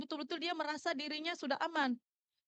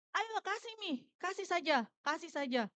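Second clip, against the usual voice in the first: imitating girls goading a classmate; starts high, then settles; lightly mimicked schoolgirl urging; girls egging on; 3 semitones higher than usual. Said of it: "Anak perempuan yang semuanya ini pada bilang".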